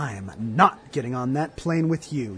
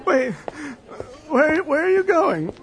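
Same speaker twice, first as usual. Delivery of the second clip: high, pleading call after her; 14 semitones higher than usual. Acted. Calls after leaving partner.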